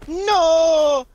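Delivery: put-on broken English foreign accent; mixed Italian Russian accent; vaguely Italian Russian accent. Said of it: "that was in a vaguely Italian, Russian accent".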